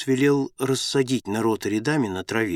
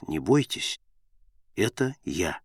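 low, softer narrated reassurance; calm them quietly, pitched down; gentle reassurance; 5 semitones lower, 5 dB quieter than usual. A narrator's reading. Saviour to frightened disciples on the water, gently reassuring.

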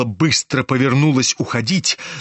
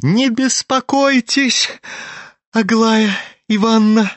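calm reply; 7 semitones higher than usual. A narrator's reading. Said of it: "спокойно отвечал Ипполит".

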